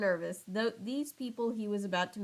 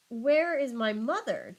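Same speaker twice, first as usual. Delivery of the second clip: mock shriek; 3 semitones higher, 3 dB louder than usual. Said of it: "Juliet shrieked".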